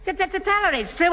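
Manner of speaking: high, stammering plea; begging her to believe him; desperate plea. Acted. Alfie stammers, begging Jimmy to back his story.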